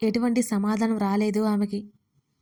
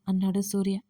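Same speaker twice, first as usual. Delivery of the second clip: ordinary delivery, nothing marked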